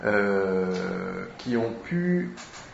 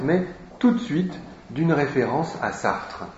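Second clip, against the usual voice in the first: ordinary talk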